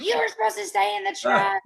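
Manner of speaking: retelling how she chewed out her husband; mad outburst. Retold or imitated. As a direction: replay the angry snap at him with a rising pitch. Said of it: "I was so mad".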